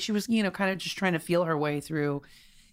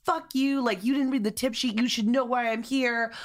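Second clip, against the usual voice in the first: mildly raised, indignant telling-off; retold rant, starting higher; cursing her out; 3 semitones higher than usual. Quoting rock star to reporter, mildly heated cursing. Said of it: "literally cursing her out".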